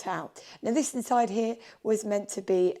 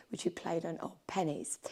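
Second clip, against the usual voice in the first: whispering; 2 semitones lower, 8 dB quieter than usual. Real, not acted. Aside about old pennies.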